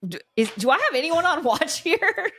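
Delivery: imitating Ford.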